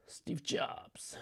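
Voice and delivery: whispering. Real, not acted. Teacher muttering to herself, recalling.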